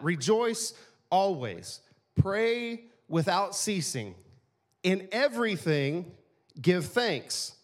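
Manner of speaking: each phrase slow and separate; slow scripture reading. Real, not acted. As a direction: let every clause stand alone. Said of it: "So it's like, that's a complete thought".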